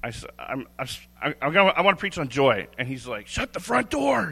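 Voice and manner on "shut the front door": high, excited squeal of disbelief; excited freak-out. Retold or imitated. Friend on the phone hearing the sermon topic, squealing high in disbelief. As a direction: squeal it way up like you can't believe it. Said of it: "He freaks out".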